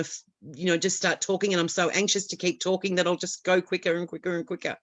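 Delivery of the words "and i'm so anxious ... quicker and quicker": speeding up. Shown as a demonstration. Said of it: "I start to speak really quickly".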